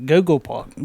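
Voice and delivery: a failed mock British Google Pod-; bungled English accent. Host fumbling the word in his English accent. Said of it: "that was terrible".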